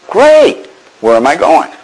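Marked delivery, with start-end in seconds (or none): 0.1-0.7 a high sarcastic "great"; mock cheer, pitched high; sarcastic delight, louder. Real, not acted. Sarcastic reaction to news.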